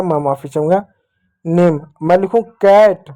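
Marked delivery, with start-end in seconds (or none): 1.4-1.9 नेम said with a long "e" vowel; long e sound. Shown as a demonstration. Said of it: "ये ए की मात्रा".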